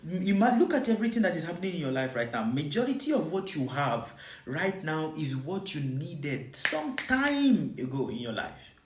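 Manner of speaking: usual speaking voice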